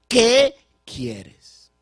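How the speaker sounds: loud, high, ringing question; Jesus asking loudly. Acted. Jesus to the blind man, loud and high. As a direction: call the question out boldly. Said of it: "Jesús le pregunta".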